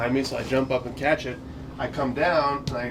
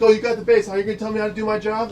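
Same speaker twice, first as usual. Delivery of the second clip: higher, louder, then quicker; mock indignant umpire; 7 semitones higher, 5 dB louder, faster than usual. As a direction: scoff at being told how to do the job. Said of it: "He's like".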